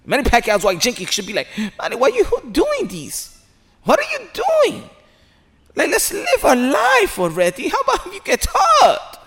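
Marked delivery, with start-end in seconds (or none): 1.8-9.2 put-on high, slow Filipino accent; wife's accent. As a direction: plead like his wife in a Filipino accent. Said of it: "I'm just doing it in an accent".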